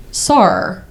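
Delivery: mock Australian doctor; imitated Australian accent. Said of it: "he was Australian".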